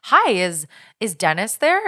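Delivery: mock-innocent nice phone voice; pleasant caller. Stalker calling under a pretext asks for Dennis, pleasant imitation. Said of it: "a very pleasant, nice person".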